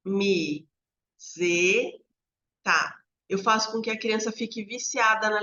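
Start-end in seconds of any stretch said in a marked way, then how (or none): 0.0-3.0 slow, broken syllable reading. Shown as a demonstration. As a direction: chop it into separate syllables with pauses. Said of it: "se eu ler assim".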